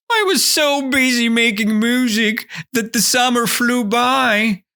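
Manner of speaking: high-pitched mock-tearful whine; hammed-up self-pitying complaint; whining. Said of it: "He continued to whine, and he was like".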